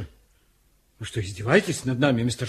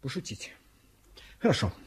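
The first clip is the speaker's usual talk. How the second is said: whisper; 12 dB quieter than usual. Real, not acted. Inspector mocks prisoner's excuse.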